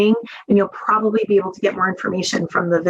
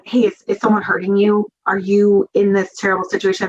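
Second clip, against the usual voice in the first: blunt question. Shown as a demonstration. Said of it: "it's not".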